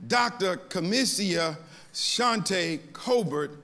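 Doctor Kamisia Shante Colbert slow, Doctor stressed; name with emphasis. Shown as a demonstration. Pastor stating the doctor's name to the church, slow and deliberate. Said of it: "I only say that name with emphasis".

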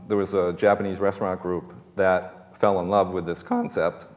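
voice cracking. Real, not acted. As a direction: voice cracks on the words. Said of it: "That's my, my voice cracking".

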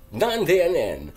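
loud and drawn out; loud slow exclamation. Shown as a demonstration. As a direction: stretch it out loudly in disbelief. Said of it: "and that word is".

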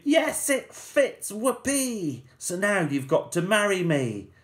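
high hammed-up whoop; screaming with glee. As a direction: gloat that the shoe fits. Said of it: "But she screamed".

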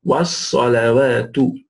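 slow Was-salawatu, flat waw; careful model pronunciation. Shown as a demonstration. Teacher repeating Was-salawatu for learners, slow model pronunciation. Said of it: "the waw is flat".

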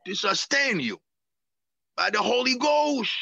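fervent preaching with rising cries. Acted. Pastor preaching baptismal vows to his church. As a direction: urge them toward the Holy Ghost.

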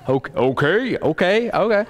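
trying out different okays in a questioning tone; certain tone of voice. Retold or imitated. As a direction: repeat okay, rising in pitch as you go. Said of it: "It was the way you said okay".

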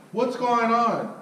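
slow, high, wary question; a suspicious wife drawing it out; wife asking. Retold or imitated. Wife walking over to the door, slow and curious.

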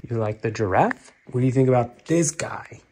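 soft whisper. Real, not acted. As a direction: whisper it gently. Whispering to toddler.

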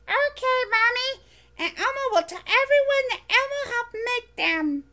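high, bright little furry monster voice, eager; squeaky childlike monster, proud; Elmo voice. Acted.

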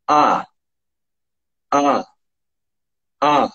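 the vowel held halfway between O and A; mixed vowel. Shown as a demonstration. Teacher holding the mixed O-A vowel. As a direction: sustain the blended O-A sound. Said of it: "prestando atenção no O e depois no A".

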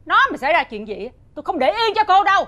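cao giọng, to tiếng đe nẹt; gằn từng chữ cảnh cáo; đe dọa gay gắt. Acted. Mẹ chồng đe dọa con dâu. (mẹ chồng to tiếng đe dọa con dâu)

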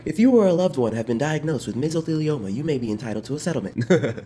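understated commercial fine-print read; a light parody of a lawyer ad; mock legal ad disclaimer. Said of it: "like those commercials where they talk fast".

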